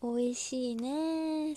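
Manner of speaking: talking around a bite of crepe; chewing while saying it; mouth full. Real, not acted. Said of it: "生チョコミルクレープを食べながら配信".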